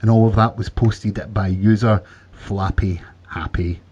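slow, measured podcast news read. Real, not acted. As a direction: read the item out deliberately to listeners. Reads out a news item.

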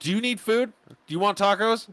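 high coaxing voice, as to a pet; high mock baby talk. Asking the angry wife in pet-talk if she wants tacos. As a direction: coax like talking to a cat.

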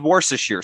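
"Worcestershire" said unsurely, slightly off; mispronounced Worcestershire. Real, not acted. Speaker admits not knowing how to say it, "Worcestershire" mispronounced. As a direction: have a go at "Worcestershire" and fumble it. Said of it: "I'm saying it wrong".

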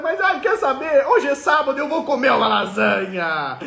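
hammed-up sigh of a failing dieter; frustrated dieter. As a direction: moan about the diet, then give in. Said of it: "acted woman on a diet".

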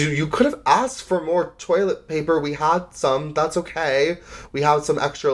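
lightly voiced accommodating crew member; helpful flight attendant. Flight attendant offering toilet paper.

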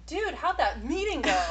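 casual Californian accent, lightly put on; California accent. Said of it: "You're like".

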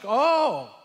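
high, loud startled "oh"; startled, pitch leaping up; shocked. Retold or imitated. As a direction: let out a big surprised cry. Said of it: "she was more shocked".

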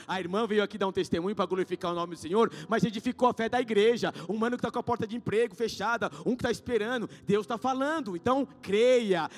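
loud, fervent preaching; loud, urgent sermon delivery; preaching at full force. Acted. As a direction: rouse the church with loud conviction.

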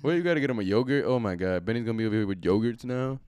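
ordinary talk

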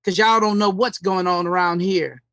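faux country accent. Mocking an actor in a New Orleans show, faux country accent. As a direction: imitate an unplaceable fake country accent. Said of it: "he's talking like this".

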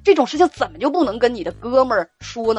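retold big-sister telling-off, worked up; exasperated scolding. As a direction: pile up rhetorical questions in disbelief. Retold rant scolding the caller.

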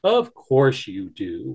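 slow, sure wolf voice; calm wolf. Acted. Wolf calmly tells the bunny he has family. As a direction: reassure him steadily.

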